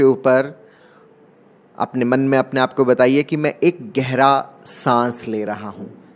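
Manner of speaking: measured meditation guide, drawing out key words; guided meditation. Acted. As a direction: lead them gently into the breath, with long pauses. (ध्यान कराते हुए, ठहर-ठहर कर)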